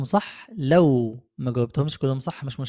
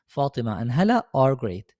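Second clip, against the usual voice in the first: slow model sentence; 3 semitones lower, much slower than usual. Shown as a demonstration. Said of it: "هنقولها إزاي؟".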